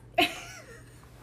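high-pitched laugh close to crying; tearful laugh. Real, not acted. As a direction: burst into a high, teary laugh. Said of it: "you're making me cry".

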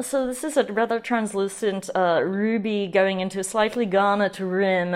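lightly posh wine snob voice; a hint of a haughty sommelier; rich snob. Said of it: "I don't need to stop with the snob voice".

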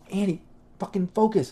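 high mock yell at the comedian; retold yell. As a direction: snap him back to work, half-acted. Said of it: "then I, like, yell at him".

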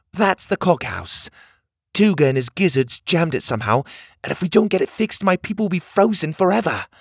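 put-on high, brisk little mechanical girl; a small bossy girl urging them on; bossy cog girl. A narrator's reading. Cog girl warning strangers about Tuga, high and urgent.

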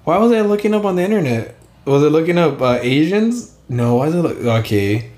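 slight lisp from a bitten tongue. Real, not acted. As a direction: talk around a sore tongue. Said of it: "I bit my tongue, so it sounds like I have a lisp".

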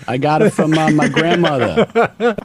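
put-on slow, drawling old-timer; creepy old fisherman telling a tale; old local voice.

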